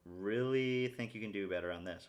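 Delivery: lightly put-on encouraging coach; inner coach voice. Shown as a demonstration. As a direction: coach yourself kindly but push a little. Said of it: "talk to myself in this voice".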